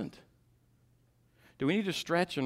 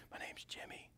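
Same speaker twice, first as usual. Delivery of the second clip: soft unvoiced little-boy whisper; boy whispering to the caller; child's whisper; 21 dB quieter than usual. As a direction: breathe it like a hiding child. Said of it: "And in a whisper".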